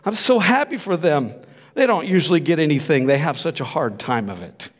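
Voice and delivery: wife misunderstanding, chirping happily; relieved wife. Retold or imitated. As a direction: gush with cheerful relief. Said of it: "And she goes".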